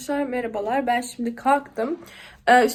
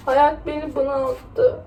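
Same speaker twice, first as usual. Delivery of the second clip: slow tearful words, crying for real; crying over the watermelon; real tears, slowed down; slower than usual. Real, not acted. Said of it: "ağlayarak kestiğim".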